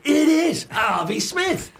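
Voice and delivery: high, drawn-out, very slow; imitating his tipsy self insisting slowly, high; slow insistent fan. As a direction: spell it out slowly like he's dim. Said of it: "And I'm going".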